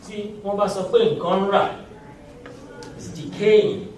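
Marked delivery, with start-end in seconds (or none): 0.1-1.8 rà said with a low falling tone. Shown as a demonstration. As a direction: drop the pitch on rà. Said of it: "Ra with the lower accent".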